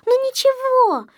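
put-on high-pitched, consoling little-girl voice; утешающе. A narrator's reading. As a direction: soothe in a high character voice. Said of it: "утешали его малышки". (утешающим высоким голоском малышки)

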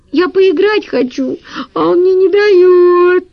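put-on high, slow child's whine; girl whining that her brother won't share; whining little girl. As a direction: drag it out like a sulky kid.

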